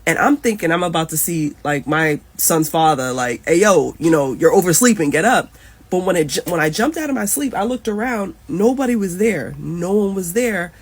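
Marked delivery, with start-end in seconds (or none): 3.5-5.5 louder, urging callout; imagined wake-up call. Retold or imitated. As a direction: rouse someone who overslept. Imagined father waking her up.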